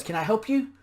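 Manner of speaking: mock snotty, high and loud; haughty dismissive question; rude tone. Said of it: "In this rude-ass tone".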